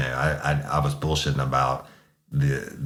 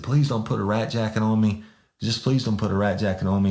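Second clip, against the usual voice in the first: pitched-up imitation of a pleading man; mock begging; 7 semitones higher than usual. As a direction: plead to be spared, in a higher voice.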